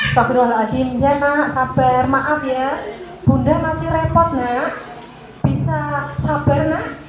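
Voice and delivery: put-on slow, patient soothing of a fussy child; gentle soothing. Shown as a demonstration. Mother soothing her fussing child while busy, slow and gentle. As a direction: coax the little one to wait, gently and slowly. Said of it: "maka hadirkan".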